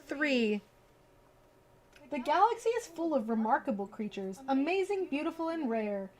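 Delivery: lively storybook read-aloud; reading to children. Acted. Streamer reading a bedtime book to viewers, lively storybook voice.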